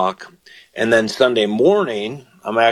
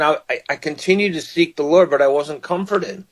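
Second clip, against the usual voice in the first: higher, searching voice of a troubled man; psalmist's lament; 5 semitones higher than usual. Retold or imitated. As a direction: voice the psalmist pleading for comfort. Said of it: "He's saying".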